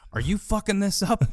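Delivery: high-pitched imitation of a holler; mock yell. Walter interrupting the phone call, high mock yell. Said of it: "Walter just yells over".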